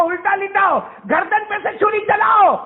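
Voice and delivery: put-on a boy urging his father on; son's urging voice.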